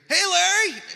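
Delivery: loud, high excited holler; big drawn-out shouted greeting; fans calling out. Retold or imitated. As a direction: call out like a fan spotting a celebrity.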